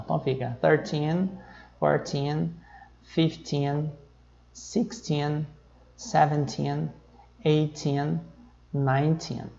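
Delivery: put-on thirteen, fourteen with the weight on the final teen; stress on teen. Shown as a demonstration. Teacher modelling numbers for students, stressing the teen. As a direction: lean on the teen in every number. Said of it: "a sílaba tônica é aqui o teen".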